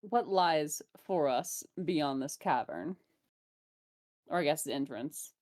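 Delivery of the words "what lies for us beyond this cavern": Inanna voice. Acted. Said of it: "I was using the Inanna voice".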